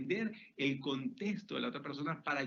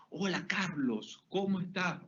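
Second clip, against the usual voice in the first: warm greeting; 3 semitones higher than usual. Shown as a demonstration. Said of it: "llama a otra persona por su nombre".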